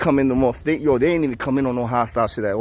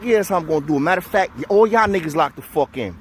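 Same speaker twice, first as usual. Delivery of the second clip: high, loud order; commanding shout; 6 semitones higher, 3 dB louder than usual. Retold or imitated. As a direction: bark the order at everyone. Ordering everyone to lock in.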